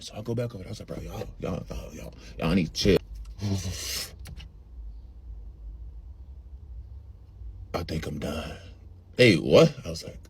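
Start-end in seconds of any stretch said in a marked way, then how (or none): 0.9-8.6 low, soft, faltering plea; spaced-out low voice; dazed stoner. Retold or imitated. Dazed, bowing out of smoking. 9.2-9.7 tag. Retold or imitated. Friends react to his mumbling.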